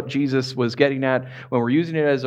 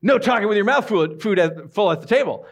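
higher-pitched bossy rule-quoting; mock sibling scolding; 5 semitones higher than usual. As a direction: call out your brother, playfully. Sibling scolding brother in retold scene.

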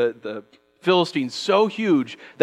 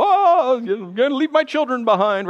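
mock panic; 8 semitones higher than usual. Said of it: "you don't go".

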